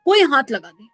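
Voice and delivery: loud snap at customers; old sock seller scolding a customer loudly; scolding vendor. Retold or imitated. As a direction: bark at someone touching the goods. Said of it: "डांट डांट के सबसे बात कर रहे थे".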